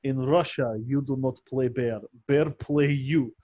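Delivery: deadpan Russian joke voice; mock Russian accent. Joking at the table about a polar bear, in a light mock Russian accent. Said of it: "imagining a Russian polar bear".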